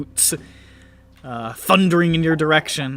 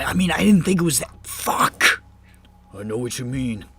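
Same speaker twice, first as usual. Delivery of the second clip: heated argument. Acted. Voicing overheard argument.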